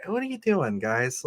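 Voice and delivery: a real exasperated squeak of disbelief; incredulous. Real, not acted. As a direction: throw up your hands at the writers. Mocking on-the-nose movie writing.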